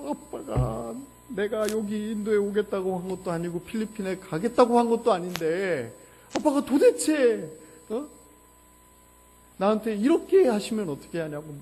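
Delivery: imitating a crying son, high and loud; tearful protest. Son tearfully protesting to his father, imitated wail. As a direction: plead and complain as a weeping teenager would. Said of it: "우는 거예요".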